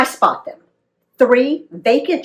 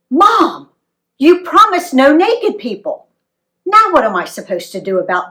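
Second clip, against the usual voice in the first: put-on teen protest; 5 semitones higher, 5 dB louder than usual. A narrator's reading.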